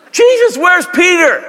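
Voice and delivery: squeaky disciple voice; high, slow mock question. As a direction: ask like a worried friend. Disciples asking Jesus after sinking.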